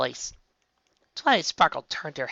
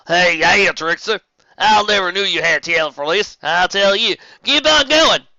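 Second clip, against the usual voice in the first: loud, higher, eager encouragement; excited cheering; 6 semitones higher, 8 dB louder than usual. Acted. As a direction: cheer her on from the crowd. Caramel cheering her on.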